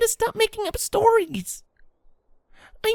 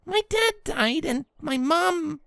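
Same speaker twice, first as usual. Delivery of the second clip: trailing off; slower than usual. Acted. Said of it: "voice trailed off".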